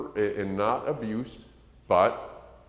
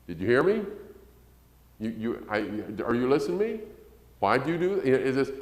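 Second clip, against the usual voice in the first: mock flustered parent; 4 semitones higher than usual.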